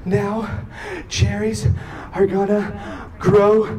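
one word at a time between sobbing gasps; imitated sobbing child. Father imitating daughter's fear of seeds growing, gasping sobs. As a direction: hiccup through it like a child crying hard. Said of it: "big sobs for several minutes".

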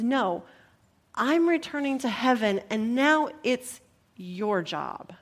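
gentle, understated handing-over of responsibility; Jesus, gently. Acted. Jesus telling disciples it's now their job, gently. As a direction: break it to them kindly, easing off at the end. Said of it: "Very gently, he says".

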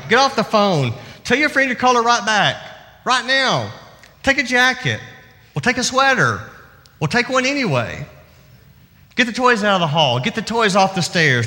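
lightly voiced busy mom scolding kids; a hint of a tired parent giving orders; harried mother. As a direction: rattle off a mother's nagging through the day. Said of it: "it would sound like this".

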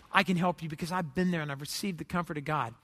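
low, softening words of comfort; gentle reassurance. Acted. Pastor comforts a crushed parent, low and gentle. Comforting a hurting church member.

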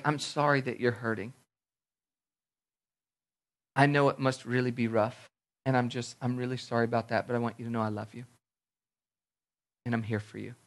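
soft, low words of comfort; tender consoling. Retold or imitated. Retells comforting a crying relative.

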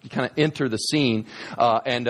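ordinary talk

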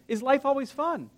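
cheerful call to the congregation; with joy. Shown as a demonstration. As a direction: sing it out with joy. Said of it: "you can say it with joy".

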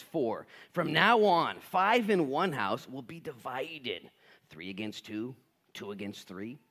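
slow, weighty reading; slow scripture reading. Acted. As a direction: measure out each pairing.

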